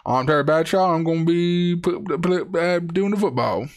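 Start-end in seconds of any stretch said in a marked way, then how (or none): 0.0-0.9 fast, bright-toned announcer voice; hammed-up sportscaster; Terry Bradshaw impression. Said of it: "talks like this in my head".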